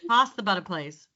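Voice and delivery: American trying Australian; attempted Australian accent. Shown as a demonstration. Coach taking her turn at switching, attempted Australian accent. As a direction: have a careful go at an Australian accent. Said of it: "That's a bit better".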